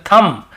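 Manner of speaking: थंब said as tham, ending on m, b silent. Shown as a demonstration. Teacher giving the correct reading, b silent. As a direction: finish थंब on the m. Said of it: "बी को नहीं पढ़ना है".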